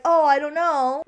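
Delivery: slow, drawn-out unsure "Oh, I don't know"; wishy-washy shrug. Retold or imitated. Allie dodging Noah's question, slow wishy-washy shrug. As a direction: say "I don't know" like you can't decide. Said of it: "don't be so wishy-washy".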